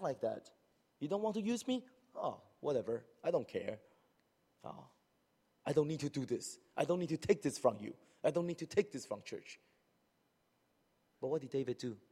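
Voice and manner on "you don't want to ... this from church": higher, resentful sulk; sulky resentment. Retold or imitated. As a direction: sulk and push back. Voicing a sulking churchgoer.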